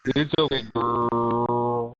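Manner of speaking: Bloody Mary voice. Acted. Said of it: "Said Bloody Mary".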